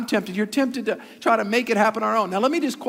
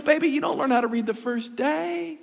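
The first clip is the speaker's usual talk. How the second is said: higher, soothing mother's voice; gentle mom; 5 semitones higher than usual. Retold or imitated. Mom calming her son, gently higher voice. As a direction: comfort him like a patient mother. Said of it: "She goes".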